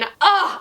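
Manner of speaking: high fond "ugh"; adoring groan. Real, not acted. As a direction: groan with gushing admiration. Gushing over a beloved character.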